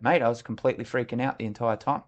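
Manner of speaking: level, unblinking confession; deadpan admission. Retold or imitated. Officer confessing to his soldier, deadpan. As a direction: admit panic in an everyday voice. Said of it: "And I said it like that".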